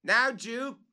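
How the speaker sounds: excited cry; cried out. Acted. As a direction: call his name up the tree. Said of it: "cried Legrand".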